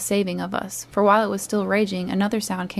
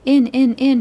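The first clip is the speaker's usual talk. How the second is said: much louder and higher, raging; furious shout; 5 semitones higher, 8 dB louder than usual. A narrator's reading. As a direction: scream it, afire with eagerness and rage. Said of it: "His voice sounded louder and higher".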